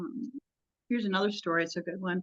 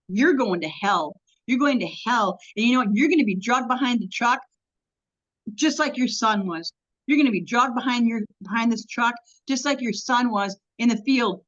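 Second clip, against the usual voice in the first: menacing threat. Retold or imitated. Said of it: "she was kinda weird".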